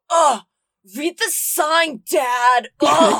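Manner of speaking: put-on loud, exasperated teenage groan; annoyed teen yell. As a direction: snap it like a sulky teen. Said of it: "you hear a voice go".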